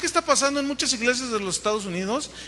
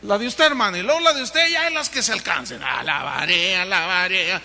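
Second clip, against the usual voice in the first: mocking worship leader's list; 3 semitones lower than usual. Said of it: "el cuate ya hacía su listita".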